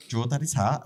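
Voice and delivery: put-on high, eager toddler voice; a little girl giving orders; imitating his daughter. Daughter asking for Daddy's hat, high toddler voice. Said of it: "She's like".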